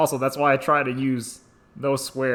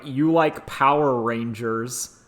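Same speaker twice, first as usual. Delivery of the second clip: slow, lower mocking jeer; 4 semitones lower, 4 dB quieter, slower than usual. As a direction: taunt like a schoolyard bully. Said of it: "in a mocking tone saying something like".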